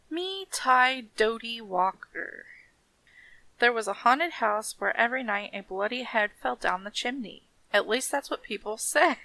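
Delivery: hushed-down, measured storybook reading; story narration. A narrator's reading. Reading of a haunted house, story narration. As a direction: read it softly as a spooky tale.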